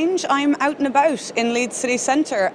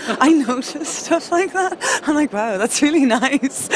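laughing; 5 semitones higher than usual. Real, not acted. Laughing at own remark.

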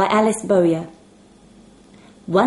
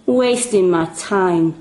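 muttering; slower than usual. Acted.

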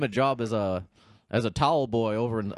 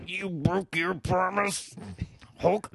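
slow, higher raspy wrestler growl; Macho Man impression; 7 semitones higher, slower than usual. Mocking Hulk in a promo, slow Macho voice.

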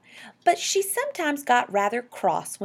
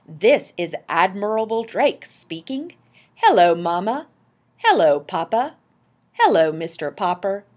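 loud, projected radio greeting; Admiral Drake; 8 dB louder than usual. A narrator's reading. Explorer broadcasting from South Pole to listeners, calling out. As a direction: call out deliberately to distant listeners. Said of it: "a faint voice floated out".

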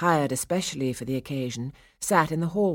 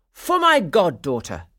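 loud, raised, showy declaration; with a flourish; 4 semitones higher, 8 dB louder than usual. A narrator's reading. Godfather presenting a gift to his goddaughter, with a flourish. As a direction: declare it grandly, falling at the end. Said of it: "he said with a flourish".

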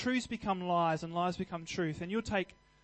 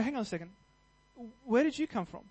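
startled realisation; 4 semitones higher than usual. Retold or imitated. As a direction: catch yourself, surprised at the thought. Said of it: "And then you go".

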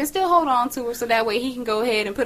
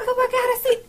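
high, laughing realization; laughing disbelief. Retold or imitated. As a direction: laugh through it, amazed. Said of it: "I was like".

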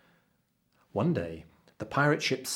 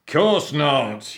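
loud, higher, snapped pirate yell; captain's yell; 5 semitones higher, 9 dB louder than usual. A narrator's reading. Captain contradicts the cabin boy, yelling. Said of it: "yelled the captain".

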